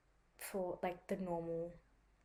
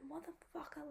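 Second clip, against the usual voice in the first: whispered curse; 8 semitones higher, 8 dB quieter than usual. Retold or imitated. Freezing, swearing at radiator.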